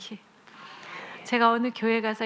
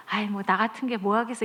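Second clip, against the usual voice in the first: put-on mopey kid voice; self-pitying child. Child with a fifty-point test, a touch of self-pity. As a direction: sulk like a child with a bad test. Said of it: "이런 말 하면".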